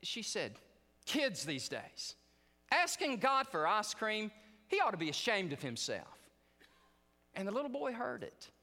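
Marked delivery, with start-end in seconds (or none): 1.1-6.2 mock scolding. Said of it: "she got upset".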